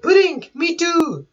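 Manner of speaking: high, gushing lovestruck groom; mock-smitten sweetheart reply; Sanji. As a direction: coo back in a high put-on voice. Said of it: "And then Sanji is like".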